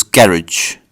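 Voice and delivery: carriage said for garage, GARR-idge stressed first; British pronunciation. Shown as a demonstration. Showing viewers the British garage, British pron. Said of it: "British people will call this".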